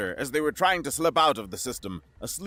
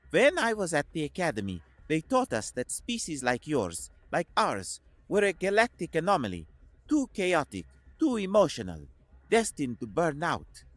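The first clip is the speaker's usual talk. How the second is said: Koslov's voice; 4 semitones higher than usual. A narrator's reading.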